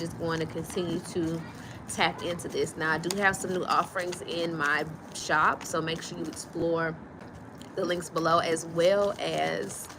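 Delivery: speaking around a retainer; slightly lisped retainer speech; wearing a retainer. Real, not acted. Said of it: "I have my retainer in, so speaking a little funny".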